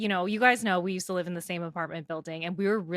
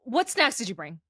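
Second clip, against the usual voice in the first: higher, louder whiny plea to Dad; needy kid to parent; 3 semitones higher, 6 dB louder than usual. Retold or imitated. Daughter asking her dad for snacks, needy kid. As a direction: call out to Dad, pitched up and pleading.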